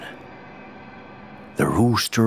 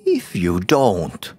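wife shouting furiously, higher and louder; 7 semitones higher, 3 dB louder than usual. A narrator's reading. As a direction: blast him with a furious wife's fury. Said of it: "The wife was furious and shouted".

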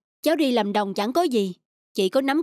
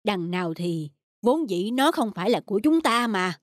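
gentle consoling; 3 semitones lower than usual. Acted. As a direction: comfort her tenderly. Husband consoles wife gently. (an ủi vợ nhẹ nhàng)

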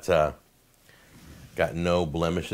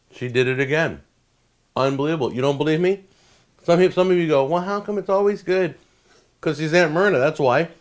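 higher and louder, thrilled; excited praise; 8 semitones higher, 5 dB louder than usual. Real, not acted. Raving to viewers about Aunt Myrna's cake, excited. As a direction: rave about the aunt's recipe.

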